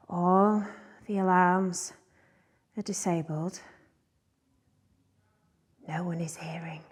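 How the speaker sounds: low, hushed warning with long pauses; quiet menace. Acted. Hostage-taker warns captives nobody hears.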